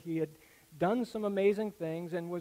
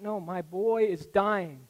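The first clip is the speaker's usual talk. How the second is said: desperate plea; slower than usual. Retold or imitated. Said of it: "He said".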